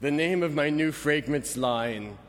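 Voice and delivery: lightly voiced suave model, slow; a hint of a smooth fragrance-ad Fabio, drawn out; Fabio imitation. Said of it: "I'm gonna do my best, uh, Fabio imitation".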